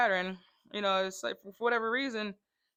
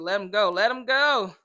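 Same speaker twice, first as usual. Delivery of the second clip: louder firm order; firm command; 8 dB louder than usual. Retold or imitated. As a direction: tell them to let go, firmly. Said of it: "And I said".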